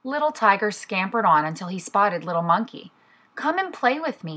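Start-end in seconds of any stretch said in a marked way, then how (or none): 3.3-4.4 high, light storybook call. A narrator's reading. Little tiger spots monkey, calls in a high voice. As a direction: call to a playmate in a raised pitch. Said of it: "he called".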